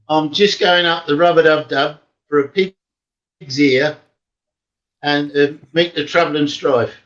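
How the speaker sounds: lightly demonstrated Cockney accent. Shown as a demonstration. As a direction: show off Cockney rhyming slang, unhurried. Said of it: "A quick rundown of, um, Cockney".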